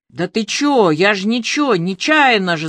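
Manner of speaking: ordinary delivery, nothing marked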